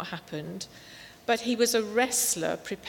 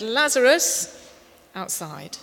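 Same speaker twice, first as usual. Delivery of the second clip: "Lazarus" shouted long and loud, "outside" dropped; loud call; 7 dB louder than usual. Shown as a demonstration. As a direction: shout "Lazarus" across the grave, then a short "outside". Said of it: "But he actually said".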